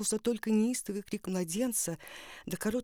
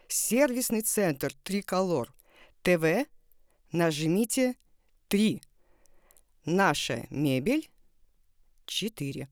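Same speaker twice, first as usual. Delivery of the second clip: customer service voice. Acted. Phone menu parody read.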